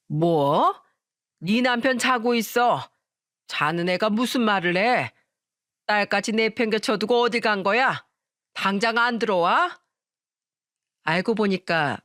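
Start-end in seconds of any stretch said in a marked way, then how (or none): 0.1-9.8 indignant, with mild scolding force; angry mother-in-law. Acted. Mother-in-law scolds daughter-in-law by phone for going out, angry. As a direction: press the questions like a cross mother-in-law. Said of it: "제게 화를 대뜸 냈던 겁니다".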